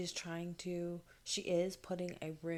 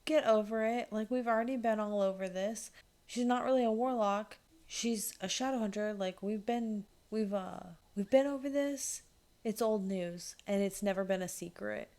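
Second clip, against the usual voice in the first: exasperated; 3 semitones higher, 5 dB louder than usual. Retold or imitated. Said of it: "Charlotte stood up and was like".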